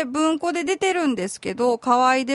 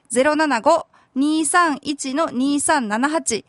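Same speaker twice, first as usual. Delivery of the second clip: number read out again, slowly; slower than usual. Shown as a demonstration. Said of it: "電話番号は".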